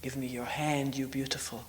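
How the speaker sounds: softly voiced, even and calm. Death answers the maiden's outcry in a calm voice. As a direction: offer it quietly, all in one tone. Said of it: "calm voice saying".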